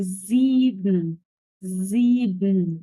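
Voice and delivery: "زيبن" drawn slow, the final vowel swallowed; muted ending. Shown as a demonstration. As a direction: stretch "زيبن" and close straight onto the n. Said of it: "كتمت صوتي في الآخر". ("زيبن" مع كتم الصوت في الآخر)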